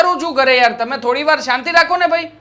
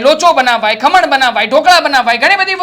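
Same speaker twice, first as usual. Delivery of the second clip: angry listing; 6 dB louder than usual. Acted. Angry husband listing dishes.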